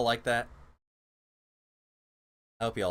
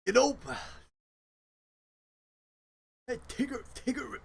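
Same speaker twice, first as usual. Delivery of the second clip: higher half-hearted Tigger voice; Tigger attempt; 10 semitones higher, 3 dB quieter than usual. After a donation forces her, half-hearted higher Tigger. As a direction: reluctantly try out Tigger. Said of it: "to do Tigger".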